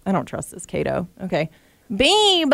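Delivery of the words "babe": higher, cooing little babe; baby voice on request. Shown as a demonstration. Cohost finally demoes her baby voice, cooing higher. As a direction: coo it to the sweetheart. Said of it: "Do it".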